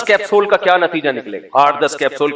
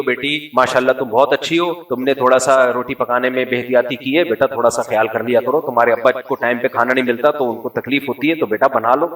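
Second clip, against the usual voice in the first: gentle mother; 3 semitones lower than usual. Retold or imitated. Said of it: "بیٹی سے ایسے بات کرتی ہو".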